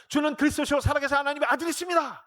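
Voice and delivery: mock eager confession. Peter confessing to Jesus, hammed-up high declaration. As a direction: recite it high, like a keen pupil.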